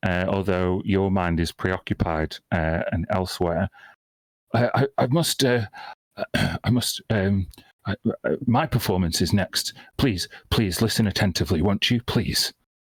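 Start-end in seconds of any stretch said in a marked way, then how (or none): 4.5-12.5 rattled, flustered, stumbling pleading voice. Game master voices a non-player character to a player, shaken and flustered. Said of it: "he's he's kind of shaken".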